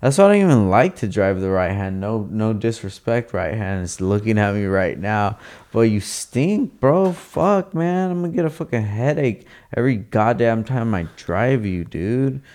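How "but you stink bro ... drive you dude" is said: high, quick mock rant at the car; mock scolding. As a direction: scold the car, half joking.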